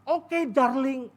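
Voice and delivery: slow, sweet drawn-out reply; sweet wife reply. Retold or imitated. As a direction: answer him lazily and sweetly. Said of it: "dia ngomongnya darling". (istri menjawab suami dengan manja dan pelan)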